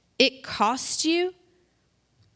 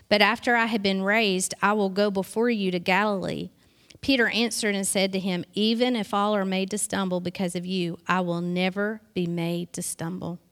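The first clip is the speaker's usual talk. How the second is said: low, even scripture reading; 3 semitones lower than usual. A narrator's reading. Preacher reading the Gospel to the congregation, measured scripture reading. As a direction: read the passage aloud evenly, slightly lower.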